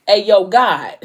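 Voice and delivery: breaking into a laugh mid-line; can't keep it together, laughing. Retold or imitated. Vlogger retelling Hendrix's prayer, laughing through it.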